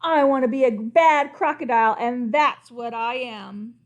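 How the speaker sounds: loud, defiant and slowing at the end; yelled. Acted. Crocodile yells at the king, loud and defiant. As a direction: shout your defiance. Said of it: "He yelled".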